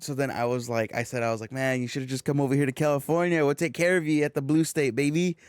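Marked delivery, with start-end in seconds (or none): 1.5-5.4 jokey, swaggering sales pitch to come over; playful invitation. Retold or imitated. Inviting a friend's wife to California, playfully cocky. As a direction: talk it up like a breezy local booster. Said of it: "I said it like that".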